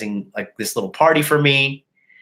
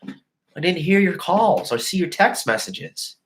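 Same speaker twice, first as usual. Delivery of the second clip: higher, innocent girly voice mocking her excuse; mocking his girlfriend's excuse, higher and sweet; 8 semitones higher than usual. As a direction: play her fake-innocent cover story. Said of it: "she was just like".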